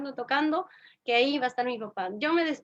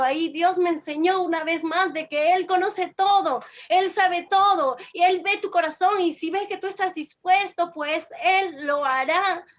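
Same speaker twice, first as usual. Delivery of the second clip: insistent testimony in a lifted voice; preaching; 4 semitones higher, 3 dB louder than usual. Real, not acted. Believer testifies that God responds and guides, preaching insistently. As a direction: drive each conviction home to the congregation.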